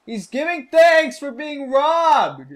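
high, slow astonished mockery; incredulous. Real, not acted. Player mocks the peddler thanking for the robbery, incredulous. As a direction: spell out the absurdity.

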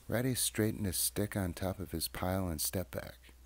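gentle read-aloud voice with lively character voices; children's story reading. A narrator's reading. Reading a childhood book aloud, storyteller voice. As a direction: read it like a bedtime picture book.

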